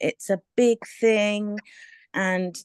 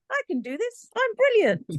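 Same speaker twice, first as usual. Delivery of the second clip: much higher, giddy self-belief; mock manic bravado; 13 semitones higher than usual. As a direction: bubble over like you can't lose. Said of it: "I have bipolar, so it's very high".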